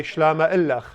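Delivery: "Shlama illach" 末尾 ch 轻喉音; Chaldean greeting. Shown as a demonstration. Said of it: "everyone say".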